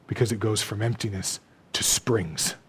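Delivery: a breathy, unvoiced whisper for the image. Real, not acted. Preacher whispering to his congregation, hushed.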